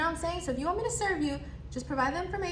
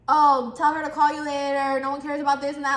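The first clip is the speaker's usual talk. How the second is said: rude customer; 5 dB louder than usual. Retold or imitated. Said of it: "why'd you have to be rude".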